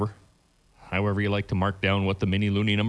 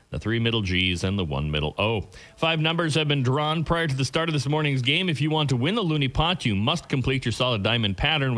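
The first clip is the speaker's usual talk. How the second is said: bingo caller; 4 semitones higher than usual. Real, not acted. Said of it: "I'm your bingo caller for this morning's games".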